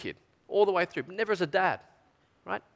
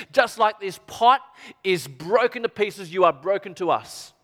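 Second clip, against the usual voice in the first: solemn curse. Acted. Elders pronounce the cutting-off curse.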